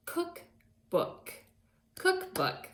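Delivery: high, sung-out dictation of cookbook; dictated word. Shown as a demonstration. Teacher dictating to second graders, high and clear. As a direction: call out cookbook high and drawn for the class. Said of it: "The word is".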